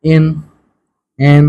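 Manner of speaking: এন said short and clearly as "en"; teacher repeating এন slowly and distinctly; pronunciation demo. Shown as a demonstration. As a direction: model এন for students to copy. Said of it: "এন উচ্চারণ হইতেছে না?".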